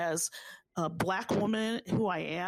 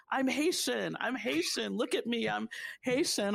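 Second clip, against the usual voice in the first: higher, proud declaring of "I'm Haitian"; proud proclaiming; 5 semitones higher than usual. Retold or imitated. A Haitian woman proclaiming her heritage to everybody, proudly. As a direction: announce it to everyone with pride. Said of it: "wanting to proclaim to everybody".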